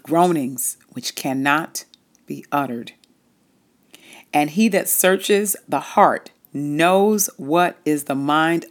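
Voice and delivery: measured, solemn Bible reading; scripture reading. Acted. Reads Romans scripture aloud.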